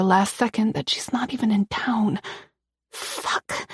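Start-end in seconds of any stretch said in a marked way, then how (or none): 2.9-3.7 breathy hushed curse, miserable; miserable whisper. A narrator's reading. Hiding from an intruder, she whispers a miserable curse. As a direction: whisper it in defeat, barely there. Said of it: "I whisper miserably".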